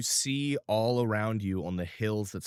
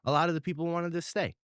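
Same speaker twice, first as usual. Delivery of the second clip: put-on higher, eager child voice; little boy voice; 3 semitones higher, faster than usual. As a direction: chatter like a happy kid. GM as Ralphie.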